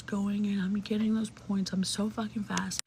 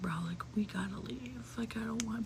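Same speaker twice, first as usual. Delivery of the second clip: urgent hushed; 7 dB quieter than usual. Retold or imitated. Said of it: "I'm like".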